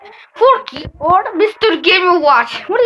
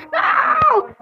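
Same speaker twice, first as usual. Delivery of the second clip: protesting shout; 10 semitones higher than usual. Real, not acted. Another elimination.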